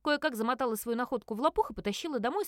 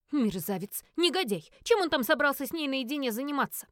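angry; 3 semitones higher, 4 dB louder than usual. Acted. Jealous witch shut out, furious.

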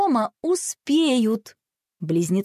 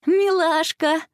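much higher, delighted coo; smiling; 9 semitones higher, slower than usual. A narrator's reading. Sister admiring pet, high smiling coo. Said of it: "улыбнулась Василиса".

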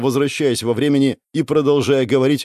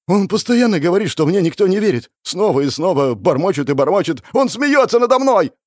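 high, distraught outburst; tearful near-shout; 8 semitones higher, 4 dB louder than usual. A narrator's reading. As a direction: build to a high, loud cry of despair. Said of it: "Едва не кричал парень в слезах".

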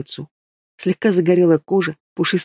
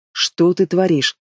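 anxious; slower than usual. Acted. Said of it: "спросила взволнованно Марлен".

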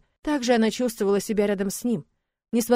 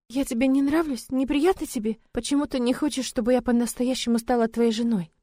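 put-on lightly higher, tearful-leaning young bride; hurt young bride; 4 semitones higher than usual. Young bride to husband, hurt and lightly higher. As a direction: ask as if about to cry. Girl's voice for Yara.

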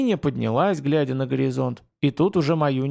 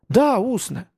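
hopeful perk-up; 8 semitones higher, slower than usual. A narrator's reading. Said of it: "встрепенулся, получив надежду Маюни".

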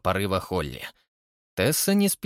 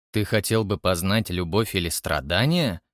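lower, lazy Frank voice; unimpressed friend, eyes shut; Frank, dry; 4 semitones lower than usual. Acted. Frank speaks. (ленивый, низкий голос Фрэнка)

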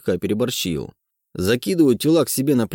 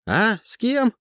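surprised; 11 semitones higher, slower than usual. A narrator's reading. Distracted teacher snaps to.

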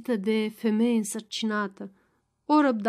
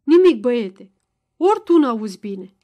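loud taunt; 8 dB louder than usual. A narrator's reading. Baciu mocks Ion loudly.

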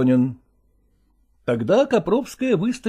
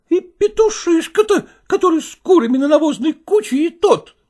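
bitter wife's outcry; 11 semitones higher, 5 dB louder than usual. Acted. Wife bitterly reproaching the father, high and loud. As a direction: wail it at him bitterly.

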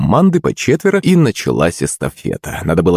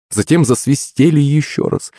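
usual speaking voice

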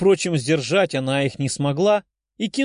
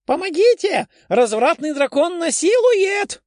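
much higher, louder hammed-up shriek; mock cry for help; 4 dB louder than usual. Liza jokingly shrieks for help while Dasha grabs her phone.

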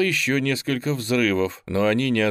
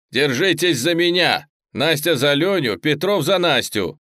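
higher, loud ordering cry; commanding shout; 6 semitones higher, 6 dB louder than usual. Acted. Teacher to pupils in the dark, loud commanding shout. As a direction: bark the chain of orders fast.

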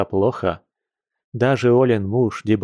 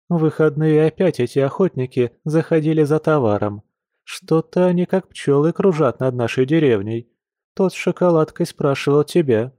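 chatty village shopgirl, complaining; a lightly voiced gossipy friend; lively young woman; 6 semitones higher than usual. The speaker's character voice, gossip.

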